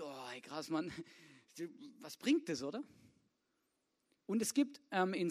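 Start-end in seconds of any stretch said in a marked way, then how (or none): 0.0-2.6 doubtful inner voice. Retold or imitated. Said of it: "dann hast du das Gefühl".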